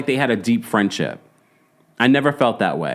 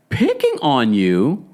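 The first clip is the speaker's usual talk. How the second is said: slow, doubtful echo of her words; slow skeptical repeat; slow questioning; slower than usual. Real, not acted. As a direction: repeat it back slowly, weighing it. Disbelief at Meredith's claim.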